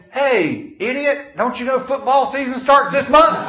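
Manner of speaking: high-pitched comic outrage; mock indignant holler. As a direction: holler it in hammed-up protest. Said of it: "I'm jumping up hollering".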